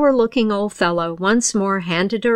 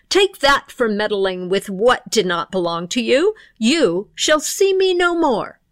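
stern pixie thief. Acted. Pixie punishes the dame.

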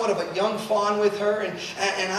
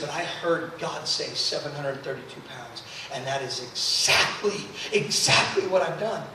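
quiet conviction; 8 semitones lower, 7 dB quieter than usual. Retold or imitated. Daughter insists she obeyed God.

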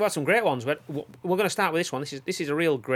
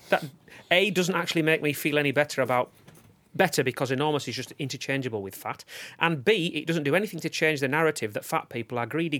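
steady read-out of a written opinion; reading aloud. Real, not acted. Podcast host reading Lauren's written comment, read-aloud delivery. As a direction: read the message out point by point. Reads out listener's written message.

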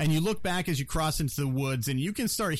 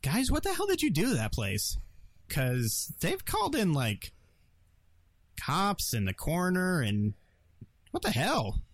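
incredulous radio contact; 4 semitones higher than usual. Acted. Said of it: "Bishop pops up and says".

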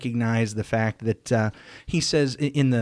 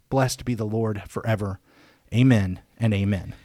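measured, solemn reading of a psalm; scripture reading. Acted. Host reading Psalm eighty-nine aloud before discussing it, in a solemn reading voice. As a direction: read it aloud like a lector in church, each line given its weight.

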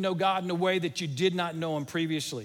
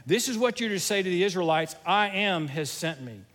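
God's voice getting loud; 4 dB louder than usual. Retold or imitated. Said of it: "I just picture God's voice getting loud here".

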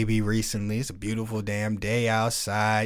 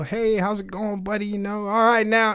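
a light friendly hello, higher; casual neighborly greeting; 9 semitones higher than usual. Retold or imitated. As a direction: toss off a breezy hi to the neighbor. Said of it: "give him a little".

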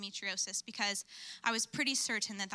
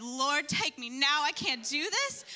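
slow, louder mock-desperate cry to God; overwhelmed outcry; 4 dB louder, slower than usual. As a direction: drag it out, hammed-up and at wits' end. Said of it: "I was a mess".

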